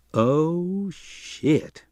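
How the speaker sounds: a breathless whispered curse; horrified whisper; dread. A narrator's reading. Eddie sees the T-rex.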